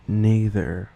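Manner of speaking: neither as British "nee-thuh"; British "er" on the end of neither, "nee" first; British accent. Shown as a demonstration. Contrasting Australian with British accent, "er" ending. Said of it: "In a common British accent".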